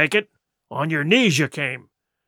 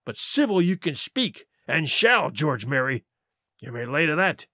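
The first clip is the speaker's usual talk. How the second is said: scornful rebuke. Acted. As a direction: tear into the crew. Silver berates George.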